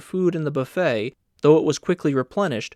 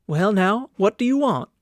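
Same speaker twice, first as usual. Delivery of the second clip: kindly; 6 semitones higher than usual. A narrator's reading. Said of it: "bending down to him kindly".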